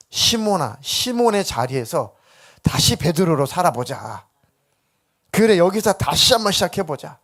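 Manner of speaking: earnest, rising encouragement. Acted. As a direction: urge Simon to start over, building in force. 예수의 격려를 연기. (다시 일어서라고 힘주어 다독이듯)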